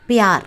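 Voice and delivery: பியார் as one syllable, "pyaar"; Hindi pronunciation. Shown as a demonstration. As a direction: model பியார் crisply for learners, pyaar. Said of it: "இதை எப்படி ஹிந்தியில pronounce பண்றது". (பியார், இந்தி உச்சரிப்பில் "ப்யார்")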